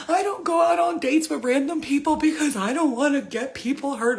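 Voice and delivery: rattling off her virtues in a frenzy; worked-up self-justifying rant; high, loud ranting. Retold or imitated. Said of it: "I was like".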